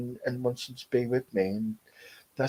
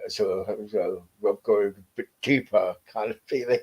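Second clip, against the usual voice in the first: lower, with a changed timbre, as if someone speaks through her; voice dropping deeper; 5 semitones lower than usual. Real, not acted. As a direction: let the voice sink lower. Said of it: "my voice is dropping".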